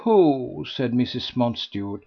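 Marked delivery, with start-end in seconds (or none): 0.0-0.6 a louder, lofty "Who"; sovereign question. A narrator's reading. Mrs Mountstuart silencing the gossips, lofty. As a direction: cut in with authority. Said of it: "with a sovereign lift and turn of her head".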